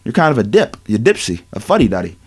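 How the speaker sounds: low, dismissive mock voice of young players. Young players brushing off their coach, low mocking voice. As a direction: sneer it down at the teacher, low and soft. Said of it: "And they're looking at Luke like".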